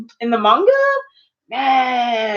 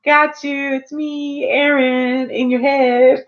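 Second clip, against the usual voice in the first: lightly voiced Eren; 4 semitones higher, slower than usual. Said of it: "And he's like".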